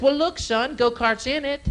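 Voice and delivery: high folksy dad; hammed-up dad voice. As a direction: play the cheap dad. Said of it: "My dad goes".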